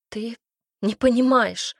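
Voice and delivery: a lightly voiced sob in the words; sobbing. A narrator's reading. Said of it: "Вероника всхлипнула".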